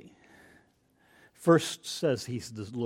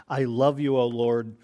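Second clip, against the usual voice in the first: passionate love; 5 dB louder than usual. Retold or imitated. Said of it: "deeply passionate word".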